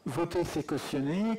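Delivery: slow, clear repeat into the microphone; repeated for the mic. Real, not acted. Speaker repeats the heckle into the mic, slow and clear. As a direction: spell out "Voter, c'est cautionner." slowly for the room. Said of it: "je répète au micro pour ceux qui n'entendent pas".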